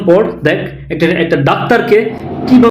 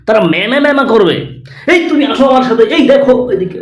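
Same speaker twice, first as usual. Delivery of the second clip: hammed-up overexcited TV anchor, pitched up; mock news reporter. Parody reporter urging viewers to watch, hammed-up excitement. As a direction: shout the hype like a sensational reporter. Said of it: "ইন্ডিয়ার Republic Bangla কিভাবে news করে দেখুন".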